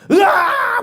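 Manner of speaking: high, loud exasperated roar; hammed-up frustrated scream at God; mock frustrated yell. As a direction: let out a fed-up cry. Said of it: "막 이러면".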